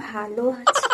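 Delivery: slow, very soft, with a shy little laugh. Acted. Shy girl repeats her answer softly to the suitor. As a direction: repeat it gently, still too soft to hear. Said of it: "তুমি কি এভাবেই কথা বলো?".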